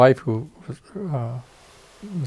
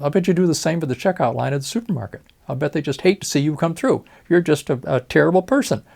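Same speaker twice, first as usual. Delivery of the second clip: raised, louder scolding of a rude patient; 5 semitones higher, 4 dB louder than usual. Retold or imitated. Doctor scolding a rude patient, higher and louder. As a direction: tell him off, voice climbing higher.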